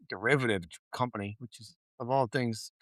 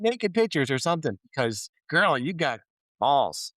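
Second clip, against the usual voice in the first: pitched way up, mock-amazed; sassy disbelief; 3 semitones higher than usual. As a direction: needle him with fake wonder. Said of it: "you're like".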